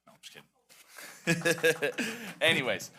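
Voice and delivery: laughing as he takes the mic; chuckling through a joke. Real, not acted. At the board meeting, joking after his name is called, laughing.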